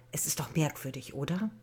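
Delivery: hushed, whispered doubt; father whispers his suspicion to his wife; whispered musing. Acted. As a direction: wonder quietly to his wife. Father muses about the missing child.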